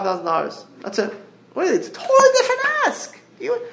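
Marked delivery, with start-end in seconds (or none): 1.5-3.6 high laughing exclamation. Real, not acted. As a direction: burst out laughing mid-sentence. Laughing at his own example.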